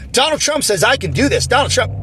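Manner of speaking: mock entitled protest.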